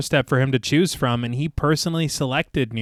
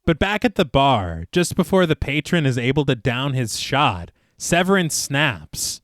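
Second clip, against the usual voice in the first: story narration; 2 semitones lower, slower than usual. Acted. Film podcast host reads the bar scene to co-hosts, measured narration. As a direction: read the scene out steadily.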